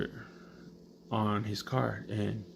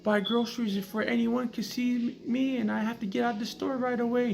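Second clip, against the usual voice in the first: mock crying TV girl; 14 semitones higher, 3 dB louder than usual. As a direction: parody a melodramatic sob story. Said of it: "And she's crying".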